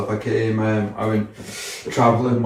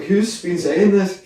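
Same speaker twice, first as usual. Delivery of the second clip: much higher and slow, incredulous; baffled question; 9 semitones higher, slower than usual. Retold or imitated. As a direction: drag it out in disbelief. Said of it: "I was like".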